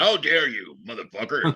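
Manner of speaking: cursing, half-joking rage; mock furious. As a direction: blast it like an offended hairstylist. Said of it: "so she definitely said it like".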